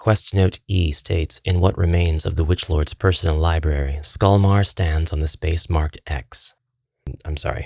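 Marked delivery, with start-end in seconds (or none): none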